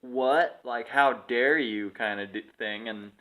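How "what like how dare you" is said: mock indignant disbelief, drawn out; dumbfounded. Guest reacts to cancelled reservation, mock dumbfounded. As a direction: imitate someone stunned and affronted. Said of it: "standing there like, dumbfounded".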